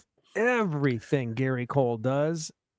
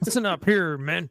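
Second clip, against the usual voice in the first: gruff coach; 2 semitones higher than usual. Acted. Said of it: "retired football coach".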